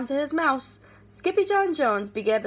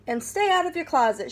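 firm mother; 5 semitones higher than usual. Acted. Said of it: "she added".

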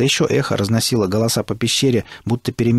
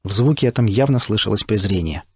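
ordinary delivery

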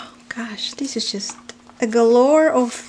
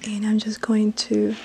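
whisper. Real, not acted. Unboxing a gift, she whispers to herself. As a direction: whisper it to yourself.

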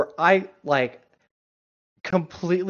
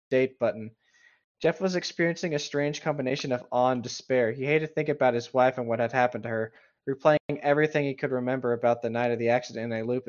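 steady, slightly lowered reading voice; story narration. Acted. Co-host reads the story text aloud, as calm narration. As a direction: narrate the story calmly, line by line.

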